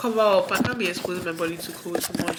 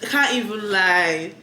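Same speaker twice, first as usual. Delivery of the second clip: excited; 2 semitones higher, 4 dB louder than usual. Real, not acted. Excited over gift candle.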